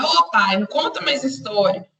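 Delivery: mild request to a father; asking a favour. Acted. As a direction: ask dad for a small favour. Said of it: "ele tá falando num tom de, tipo, de pedido".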